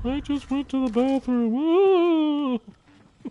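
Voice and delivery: high, loud shocked cry; startled yell. Real, not acted. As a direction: yelp in sudden shock. Startled in game.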